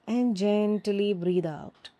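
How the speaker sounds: slow breath cue. Shown as a demonstration. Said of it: "take a slow, deep breath".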